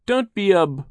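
high, loud retort broken off at "b-"; cut off mid-word. A narrator's reading. Girl starts to protest, stops herself at "b-". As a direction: start strongly, then stop dead on "b-". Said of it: "she stopped herself before she could say".

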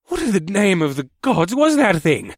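loud, high startled shout. A narrator's reading. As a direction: shout it across the field. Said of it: "Bakoth shouted".

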